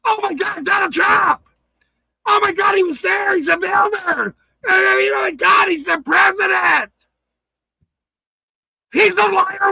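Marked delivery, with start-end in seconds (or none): 0.0-6.9 sarcastic imitation of a starstruck supporter; mock fan gush. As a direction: ham up a gushing Trump fan. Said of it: "Everyone's gonna go some".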